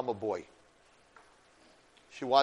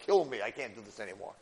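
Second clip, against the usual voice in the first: low, soft, resigned; worn-out surrender; 7 semitones lower, 6 dB quieter than usual. Retold or imitated. Teacher voicing a leader who gives up, worn-out surrender. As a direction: say it drained, giving up. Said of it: "And I don't talk like this".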